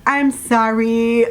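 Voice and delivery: slow, drawn-out apology, lightly loopy; imitating drugged self. Patient pumped full of drugs apologizing, mildly loopy drawl. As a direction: stretch both words out like a drugged patient. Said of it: "I'm really high".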